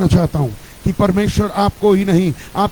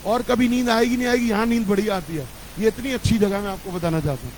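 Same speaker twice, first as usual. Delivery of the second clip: quiet aside; 7 dB quieter than usual. Real, not acted. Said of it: "joking aside about sleepers".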